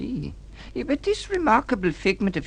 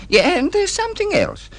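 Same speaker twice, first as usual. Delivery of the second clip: higher and louder, firm warning; stern outburst; 5 dB louder than usual. Acted. Husband confronting wife about her fancy new life, sharply raised. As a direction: lift the voice sharply to lay down the law.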